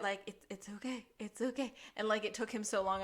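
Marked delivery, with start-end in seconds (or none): 0.3-1.7 mock soothing. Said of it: "so touchy about it".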